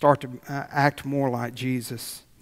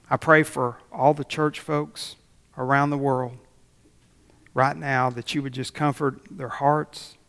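earnest pastor's closing prayer; a hint of pulpit prayer cadence; 3 dB louder than usual. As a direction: pray it over the church, steady and heartfelt. Closing prayer over the congregation.

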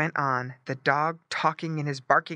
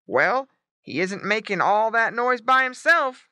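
higher, louder emphatic reply; lightly voiced father pig; 7 semitones higher, 6 dB louder than usual. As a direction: reason it out as Mister Pig.

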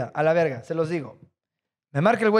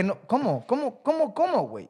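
disbelief; 5 semitones higher, 3 dB quieter than usual. Retold or imitated.

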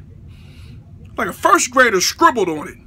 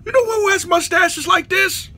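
ordinary delivery

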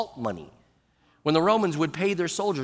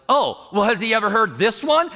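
raised, mock-defiant comeback; brazen challenge; 3 semitones higher, 3 dB louder than usual. Swearer showing off before a pastor, brazen challenge. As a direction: act the unashamed swearer, pitched up.

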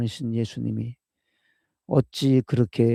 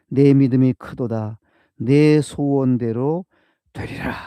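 proclaiming loudly; 6 dB louder, slower than usual. Acted. Jesus's words proclaimed in sermon.

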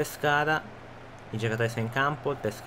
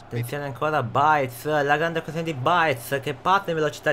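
excited play-by-play. Acted. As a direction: chant the player's name as he runs. Calling a fast attack live.

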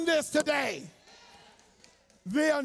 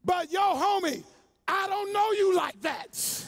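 the demon speaking; 6 semitones higher, slower than usual. Acted. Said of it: "notice what the devil says".

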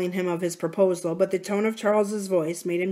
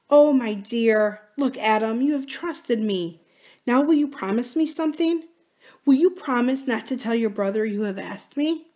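a hint of Kathy, higher and pleading; lightly voiced pleading Kathy; 5 semitones higher than usual. Kathy asking Adam for a promise, lightly pleading.

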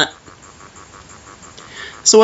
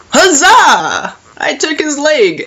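triumphant cheer; 7 semitones higher, slower than usual. Real, not acted. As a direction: cheer the small win. Celebrating game success.

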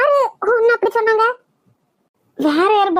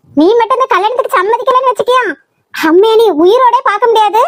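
angry scolding; 6 dB louder than usual. Acted. Mother threatens daughter.

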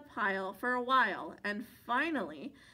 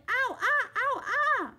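high, loud pained cries; yelling in pain; 12 semitones higher, 6 dB louder than usual. A narrator's reading. Bear under the mosquito pile, high pained yelling. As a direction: yelp as the bugs bite.

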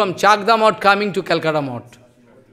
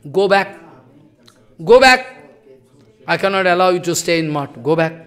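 firm, louder go back; stern dismissal; 4 dB louder than usual. Retold or imitated. Maharaj sternly ordering the late boy to go back. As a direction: order him out firmly. Guru sending the boy away.

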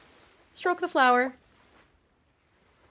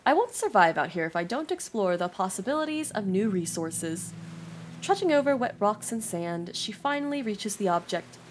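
story narration. A narrator's reading. Reading game story text aloud.

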